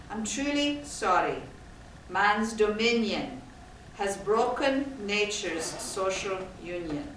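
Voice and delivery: poem recited in Braid Scots; measured, expressive Scots verse reading. Acted. Speaker reads Burns's poem aloud to the audience, in Braid Scots. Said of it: "this Braid Scots, it's, it's, it's what it's written in".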